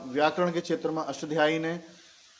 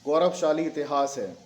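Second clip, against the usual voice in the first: measured dictation, pausing between phrases; slow dictation. Shown as a demonstration. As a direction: read it out for students to write down. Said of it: "धीरे धीरे बोल रहा हूँ". (धीरे-धीरे लिखवाते हुए)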